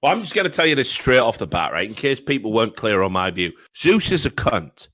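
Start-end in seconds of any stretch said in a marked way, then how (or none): 3.8-4.9 formal statement. Real, not acted. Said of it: "I'd like to make a statement".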